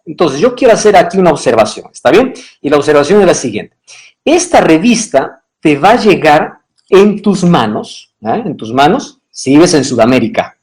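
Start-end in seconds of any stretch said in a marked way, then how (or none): none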